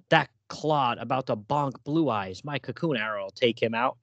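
lightly voiced cheesy comic hero, slowed at first; corny hero line. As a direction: read it like a hammy sixties sidekick. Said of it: "What does he say to Wonder Girl?".

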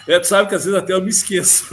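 talking through a quick laugh. Real, not acted. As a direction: laugh while saying it, fast. Guest laughs at host's remark.

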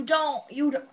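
fast, loud, high exasperated outburst; exasperated rant. Real, not acted. Fan ranting at useless Miranda, fast and loud. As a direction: rattle it off in disbelief.

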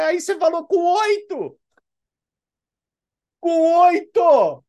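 high, loud, slowed "Com oito!"; incredulous shout. Real, not acted. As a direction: hammer home the absurdity. Outraged punchline. (gritando indignado "Com oito!")

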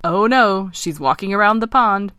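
lively frog warning; croaking alarm. Acted. Eric warning Ken the princess is coming, croaking. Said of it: "croaked Eric".

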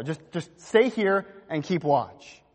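"Just, just stay here and keep watch" drawn out slowly; slow, pleading read. Shown as a demonstration. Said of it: "In verse thirty-four".

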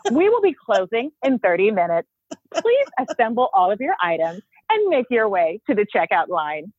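lightly voiced store closing announcement; supermarket announcement. Shown as a demonstration. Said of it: "you're really good at that".

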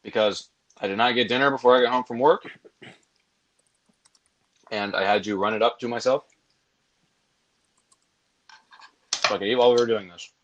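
talking with food in mouth; words round a bite of food; chewing while talking. Real, not acted. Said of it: "Can you guys hear me eating by chance?".

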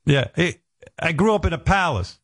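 high mock-grand boast; sarcastic. Comedian mocking the idea he was rich, a high sarcastic boast. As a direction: lay the irony on thick.

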